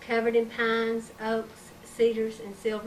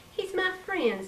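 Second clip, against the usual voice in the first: put-on little girl voice; 9 semitones higher than usual. Child defends booger.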